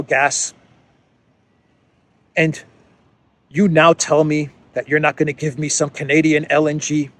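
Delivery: hammed-up furious German leader; mock angry Olaf. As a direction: chew out Trudeau like a cheated ally. Olaf berates Trudeau in skit.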